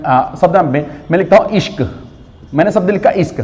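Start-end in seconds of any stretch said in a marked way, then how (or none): 1.5-1.9 "इश्क" with the श् cut to a half sound, joined straight onto क; half-letter pronunciation. Shown as a demonstration. Teacher proving a half letter can be spoken, half-letter pronunciation. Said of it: "आधे सौ का उच्चारण हो गया". 3.1-3.4 "इश्क" with a half श्, no vowel before क; half-letter pronunciation. Shown as a demonstration. Teacher showing students the word just written, half-letter pronunciation. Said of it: "आधे सौ का उच्चारण हो गया".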